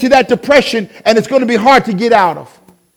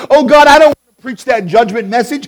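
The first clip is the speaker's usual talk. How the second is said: prophet's raised, pleading protest; crying out to God; 2 semitones higher, 5 dB louder than usual. Acted. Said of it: "when they cried out to God".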